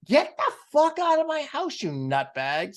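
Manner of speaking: very high, hammed-up screaming order; furious yell. Owner yelling at the neighbor in the garage, mock fury. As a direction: throw the intruder out at full pitch. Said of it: "I'm like".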